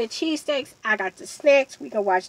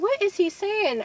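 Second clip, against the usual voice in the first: high-pitched puzzled question; retold bafflement; 10 semitones higher than usual. Storyteller recalls puzzling over his mumbling, high-pitched bafflement. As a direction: ask it in bewilderment, pitched up.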